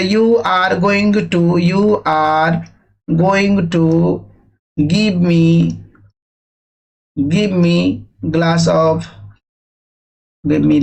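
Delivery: "give me" dragged out, x0.2 slow, hesitant; a student groping for words; wrong way, halting. Shown as a demonstration. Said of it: "ऐसा नहीं order दिया जाता है". (धीमे, अटकते हुए)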